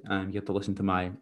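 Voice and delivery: hoarse, croaky throat. Real, not acted. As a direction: speak with a croaky voice. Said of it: "my croaky voice".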